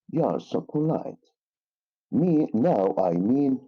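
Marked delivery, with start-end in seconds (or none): 0.1-1.2 YOU ARE SO POLITE said high and smooth, little stress; sincere compliment tone. Shown as a demonstration. Teacher shows pupils a true compliment, sincere tone. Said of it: "notice the tone, the tone of my voice".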